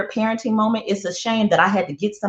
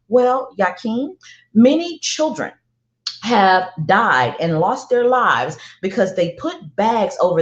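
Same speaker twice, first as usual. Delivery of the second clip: concerned mom. Retold or imitated. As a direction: gently reason with a child, word by word. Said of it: "I try to go the concern route".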